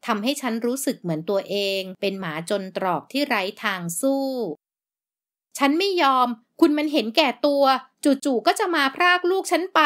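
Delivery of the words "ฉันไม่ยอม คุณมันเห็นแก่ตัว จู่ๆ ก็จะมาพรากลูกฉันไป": slow, much higher and louder anguished cry; wounded fury climbing to a high shout; pained outburst. Acted. Mother cries out at the selfish father in anguished rage. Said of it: "ฉันพูดออกมาอย่างเจ็บร้าว".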